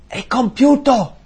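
triumphant cry. Retold or imitated. Preacher voicing Jesus' last cry on the cross, triumphant and loud. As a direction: proclaim it like a victory shout.

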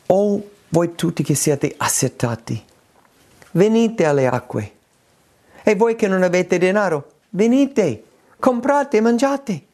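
solemn preacher reading scripture aloud. Acted. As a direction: proclaim the prophet's call to the thirsty. Reads Isaiah 55 aloud.

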